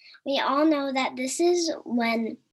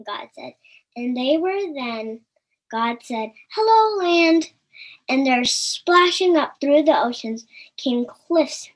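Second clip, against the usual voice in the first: gentle storybook reading voice; story narration; 3 dB louder than usual. A narrator's reading. Reading the creation story to children, gentle storytelling. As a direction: read it like a bedtime Bible story.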